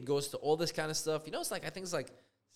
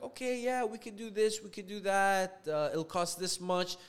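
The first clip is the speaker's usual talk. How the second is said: higher, lightly voiced tradesman; easygoing tradesman; 5 semitones higher than usual. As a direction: imitate a worker listing services, pitch lifted. Voices the new painter on phone.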